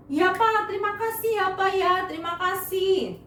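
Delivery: high, eager thank-you to father; grateful son. Acted. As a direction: son happily thanking his dad. Yakub thanking his father.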